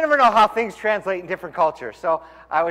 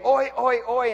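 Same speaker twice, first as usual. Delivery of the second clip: urgent horse command; 6 semitones higher, slower than usual. Retold or imitated. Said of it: "if you really want him to go".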